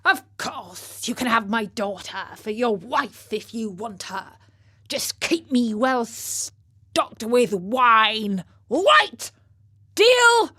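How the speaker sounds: put-on a jolly old rogue sealing a deal, climbing to a shout; hearty beggar father. Beggar father bargains with the king.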